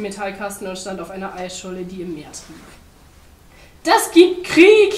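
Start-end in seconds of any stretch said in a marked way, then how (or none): 3.8-4.9 slow, high, loud war cry; full-voiced declaration of war; shouting. A narrator's reading. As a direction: yell a drawn-out threat. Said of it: "schrie der Pinguin".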